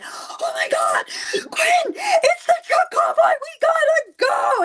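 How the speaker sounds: very high, drawn-out shriek; excited screaming. Retold or imitated. Mom calling her son to the truck convoy, screaming with excitement. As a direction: scream it slowly in wild excitement. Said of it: "screaming at the top of my lungs".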